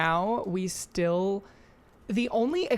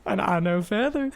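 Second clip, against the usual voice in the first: mock Southern movie quote; lightly put-on Southern accent. Chiming in with a movie line, mock Southern accent. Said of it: "Where the Crawdads Sing Southern accent".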